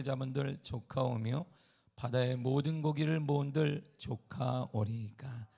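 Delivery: slow, measured Bible reading; solemn scripture reading. Acted. Pastor reading Ezekiel to the church, slow and solemn. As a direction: read each word with weight.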